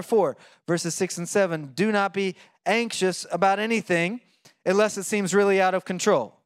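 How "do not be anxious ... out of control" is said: mock misquote. Shown as a demonstration. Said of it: "No, no".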